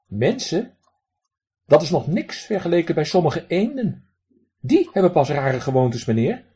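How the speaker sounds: high, loud duck voice with a raspy quack. Acted. Drake lectures the man who threw pebbles, high raspy quack. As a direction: play a cheeky drake scolding a stranger. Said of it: "een wat rauw kwakende stem".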